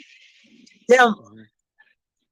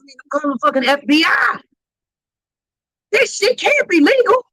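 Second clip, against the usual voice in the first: outraged shout; 3 semitones higher than usual. Retold or imitated. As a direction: shout it like you're calling the cops. Outraged at the tape.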